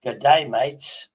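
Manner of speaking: drawled mock Australian greeting; a playful try at an Aussie g'day; mock Aussie accent. Man greeting the AI in a mock Australian accent. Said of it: "Uh, well, yeah".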